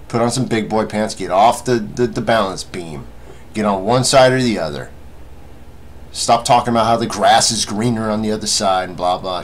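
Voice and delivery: loud, exasperated telling-off; scolding rant. Real, not acted. Ordering viewers to pick one side, loud scolding. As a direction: push each order out forcefully.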